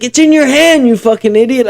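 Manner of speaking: high-pitched mock yell at an idiot; exasperated retold scolding. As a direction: imitate a fed-up friend. Friend's exasperated answer retold.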